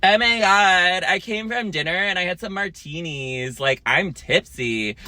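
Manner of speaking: a hint of a drunk lady gushing; tipsy woman. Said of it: "she was like".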